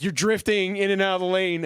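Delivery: high, indignant mock yell; yelling at drivers. Driver yelling at someone for drifting, indignant. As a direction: imitate a driver scolding another over bad driving. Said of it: "I just love yelling at people".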